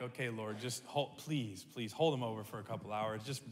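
dad praying in the car for time, soft and pleading; quiet prayer. Retold or imitated. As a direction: murmur a desperate prayer under your breath. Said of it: "I'm just praying and like".

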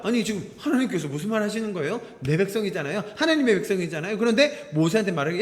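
ordinary talk, nothing marked

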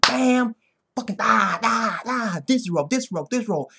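high-pitched, hammered-out impact sounds; excited punch noises. Retold or imitated. Fan acting out the knockout combination, excited and high-pitched. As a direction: punch each syllable like a landing blow.

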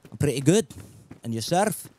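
friendly put-on Scottish; amateur Scottish accent to a stranger; Scottish accent attempt. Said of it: "I tried to do a Scottish accent".

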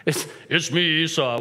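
hesitant, lightly put-on voice; lightly disguised son. Son posing as his brother to his father, lightly disguised. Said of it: "gotta know his voice".

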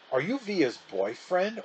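slow, playful needling question; mischievously. A narrator's reading. Little brother needling the sister's new guest, mischievous and slow. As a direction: stir up trouble with a grin. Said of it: "Augie asked mischievously".

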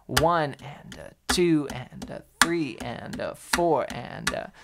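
slow, even three-syllable count; triplet count. Shown as a demonstration. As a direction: count each beat in three, slowly. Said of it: "you can count those like this".

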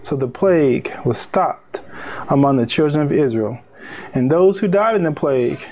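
measured reading in separate phrases; deliberate preacher's Bible narration; scripture reading. Acted. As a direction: read it out phrase by phrase, with weighty pauses. Reads scripture aloud.

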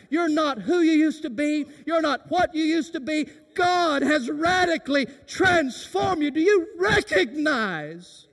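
loud, high preaching shout of Hey and rebuke. Shown as a demonstration. Preacher shouting at the congregation what Paul means. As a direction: call it out to the church like a revival cry. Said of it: "we'd say it like this".

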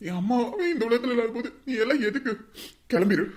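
loud furious tirade; angry shouting. Acted. Son disowning his sister, loud angry tirade. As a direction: rage at her and order her out.

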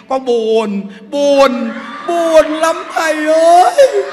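slow wailing mock sorrow; imitating a sad wail. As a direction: ham up a lonely woman's moan to the monk. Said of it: "mà chút bà khóc".

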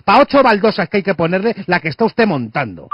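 rising indignant rant; heated rant. Acted. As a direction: let the outrage build.

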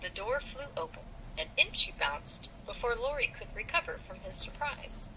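lively read-aloud of a novel with light voices; story narration. Acted.

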